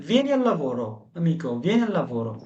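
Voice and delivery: "amico, vieni al lavoro" drawn out slowly; slow teaching demo. Shown as a demonstration. Teacher to Italian class, slow clear model phrase. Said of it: "আপনি বলতে পারেন".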